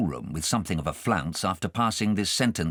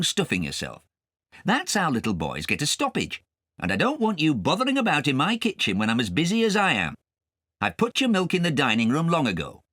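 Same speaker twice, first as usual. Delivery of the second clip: a touch of a cross servant, a little louder; cross cook; 7 semitones higher, 3 dB louder than usual. Acted. Cook Jane catching Kay at the raisins, mildly cross. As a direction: scold the boy mildly.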